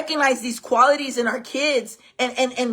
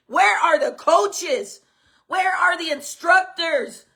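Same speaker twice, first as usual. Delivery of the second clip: outraged questioning; 5 semitones higher, slower than usual. Real, not acted. Angry demand for accountability.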